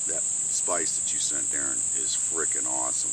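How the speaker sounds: talking with mouth full. Real, not acted. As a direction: speak around a mouthful of food. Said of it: "Sorry if I'm talking with my mouth full".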